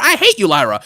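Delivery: dropped, sour mock hatred; hateful split personality. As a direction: switch abruptly to loathing. Acting wrestler's split personality.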